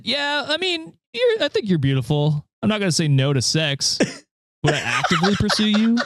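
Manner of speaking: a hint of a cocky frat bro. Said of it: "pretentious frat boy voice".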